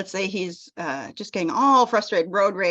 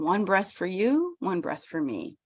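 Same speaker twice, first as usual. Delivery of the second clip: calm, slow mantra; slow breathing phrase. Shown as a demonstration. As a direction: breathe it out gently, one phrase each breath. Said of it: "try the equilibrium".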